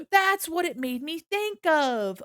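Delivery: gasping, slow, high and loud; thrilled by the realization; wide-eyed excited discovery. Real, not acted. Gasps at Patrick Star idea.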